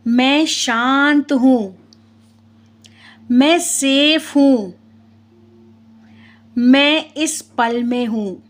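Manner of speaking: slow, unhurried meditation voice with long pauses; guided meditation. Real, not acted. Telling listeners to relax the body and breathe, guided meditation. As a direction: guide them gently into calm, phrase by phrase.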